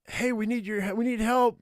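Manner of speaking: high, urgent plea; teen calling for help. Acted.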